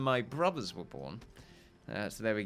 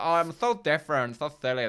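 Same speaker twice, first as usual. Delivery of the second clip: quirky person; 2 semitones higher than usual. Retold or imitated. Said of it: "That kind, like".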